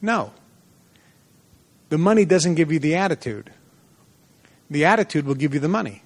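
a mild hint of stern correction. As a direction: firmly set the young man straight. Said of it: "he said very sternly".

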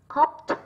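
hoped, the -ed sounded as t; final T in hoped. Shown as a demonstration. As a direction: say hoped ending in a crisp "t". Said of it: "là âm T". (đọc hoped kết thúc bằng âm T)

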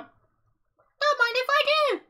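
high, drawn-out mock-polite voice; silly, slow high-pitched acceptance; playful acceptance. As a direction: stretch it out high and jokey. Jokingly accepting the offered pizza.

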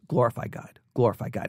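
hushed scripture voice; soft whisper-like voice. Pretend. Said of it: "just whisper to us".

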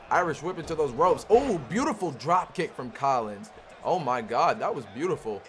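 lively ringside commentary calling each move; live play-by-play. Acted. Player commentating his own wrestling game, play-by-play. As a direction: call the match as it happens.

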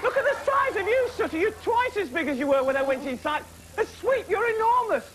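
tiny shrunken voice. Pretend. Shrunken Matthew marvels at giant Sooty, squeaky and high. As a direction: sound like you've shrunk to a few inches.

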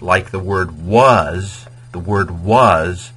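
slow, loud "was" stretched out; stress on was. Shown as a demonstration. Teacher stresses "was" as a memory hook, slow emphasis. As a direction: lean hard on "was". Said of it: "the past".

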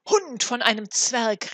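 shouting duke in a rage; furious cry. A narrator's reading. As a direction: roar the insult at the dwarf. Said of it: "rief er".

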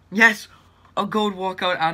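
loud, high yes; excited shout. Real, not acted. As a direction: cheer at the surprise pull. Walkout celebration.

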